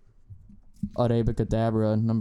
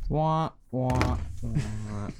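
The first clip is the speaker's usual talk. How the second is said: wah wah; 3 dB quieter, much slower than usual. Pretend. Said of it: "No, that deserved the wah".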